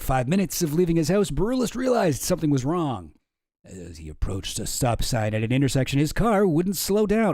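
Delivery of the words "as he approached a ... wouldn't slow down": mock spooky storytelling; silly dramatic voice. Shown as a demonstration. Streamer reading the news in a silly voice, hammed-up. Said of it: "I was doing, like, a kind of silly voice here".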